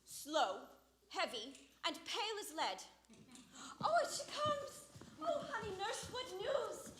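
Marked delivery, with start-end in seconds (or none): 3.8-6.9 higher, eager cry of delight; excited. Acted. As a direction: burst out with eager joy. Juliet sees nurse arrive.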